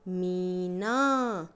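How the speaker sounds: मीना said very slowly, stretching the long ई; drawn-out reading. Shown as a demonstration. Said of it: "मीना में बड़ी की मात्रा है". (बड़ी ई को खींचकर, बहुत धीरे)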